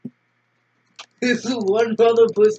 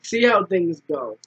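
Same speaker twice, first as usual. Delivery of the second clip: stoner voice; 4 semitones lower than usual. Acted. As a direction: talk like a chill stoner. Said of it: "You sound like a stoner".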